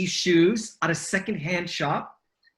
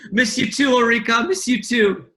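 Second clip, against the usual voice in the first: laughing; 4 semitones higher, 5 dB louder than usual. Real, not acted. Laughing reply to teasing.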